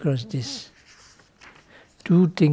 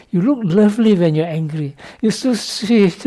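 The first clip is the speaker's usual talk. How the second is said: flattering; 4 semitones higher, 7 dB louder than usual. Retold or imitated. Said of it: "No, you say".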